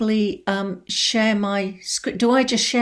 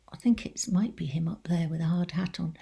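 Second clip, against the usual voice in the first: whispered aside; 6 dB quieter than usual. Real, not acted. Aside while pointing at slide photo.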